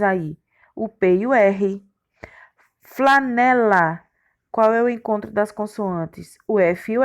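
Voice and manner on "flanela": slow teacher's syllable split. Shown as a demonstration. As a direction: sound out each syllable separately. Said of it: "essas palavras estão separadas". (separando as sílabas devagar)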